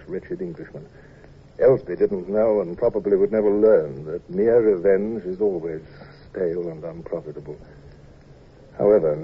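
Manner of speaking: low, measured storytelling; story narration. A narrator's reading. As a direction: recount it gravely, in an unhurried voice. First-person narration between scenes.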